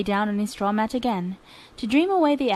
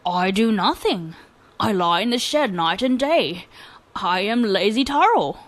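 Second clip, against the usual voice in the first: bold lazy voice. Acted. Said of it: "answered boldly".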